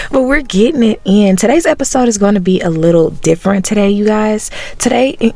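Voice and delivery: early-morning rasp; a rough, raspy throat. Real, not acted. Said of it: "ignore the raspy voice".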